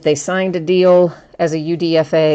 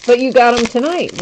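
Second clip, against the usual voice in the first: laughing; 7 semitones higher, 5 dB louder than usual. Real, not acted. Teasing viewer who won bid.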